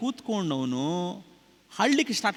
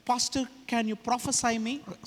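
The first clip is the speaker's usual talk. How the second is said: asking the pastor; 3 semitones higher, 4 dB quieter, much slower than usual. Retold or imitated. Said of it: "ಸ್ವಲ್ಪ ಜನ ಹೇಳ್ತಾರೆ".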